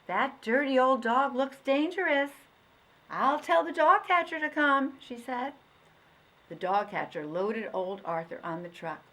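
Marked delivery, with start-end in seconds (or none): 0.1-5.0 higher, louder mother voice; a mother alarmed by a stray; worried mother. Acted. Mother wary of the dog.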